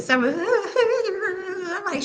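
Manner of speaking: high, drawn-out fake wail; whiny put-on sobbing noise; mock crying. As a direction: imitate someone turning on the tears. Mimics her crying.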